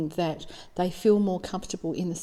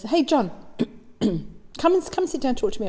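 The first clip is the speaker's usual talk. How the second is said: lightly voiced mum calling her son, higher pitch; acted mum; 6 semitones higher than usual. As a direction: greet your child in a higher, sing-out voice. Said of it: "and she goes".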